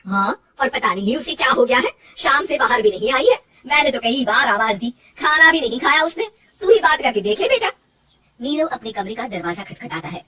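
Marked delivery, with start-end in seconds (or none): 0.1-7.7 loud, worried complaint to her son; mother urging son to talk to Rajni; worried mother-in-law. Acted. (चिंतित माँ की शिकायत)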